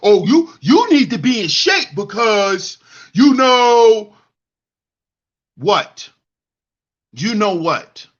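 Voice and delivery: mocking YouTube preacher. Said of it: "Up here telling women".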